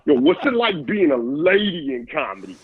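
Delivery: put-on Black American accent; mock caller with a Black American accent; thick Black accent. Comic repeats the imagined caller's question, mock Black American accent. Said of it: "he had, like, a thick black accent".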